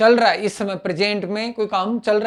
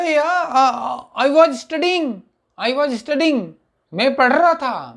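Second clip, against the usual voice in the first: higher, heated insistence; angry protest; 5 semitones higher, much slower than usual. Retold or imitated. Chintu, accused of lying, protests angrily to teacher. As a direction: insist angrily that you were studying. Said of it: "तब चिंटू को आया गुस्सा".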